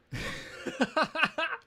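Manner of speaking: high, giddy giggle. Real, not acted. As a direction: burst into a high laugh. Laughs after quoting her flirty offer.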